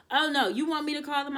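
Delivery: shocked and protective; mom's alarmed reaction. Retold or imitated. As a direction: play the worried mom jumping in to help. Mom reacts to bad news.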